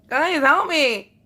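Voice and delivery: loud, slow, high desperate plea; pleading. Real, not acted. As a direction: beg the viewers for rescue. Pleading for help, clumsy.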